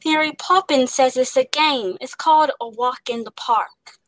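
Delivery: put-on a light British accent on a child's line; lightly voiced British, as Jane Banks. Shown as a demonstration. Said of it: "so I am gonna say a line".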